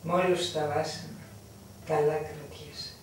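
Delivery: slow lamenting murmur; slow weary lament; sad sigh. Acted. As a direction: sigh over her own troubles. Sighing lament alone.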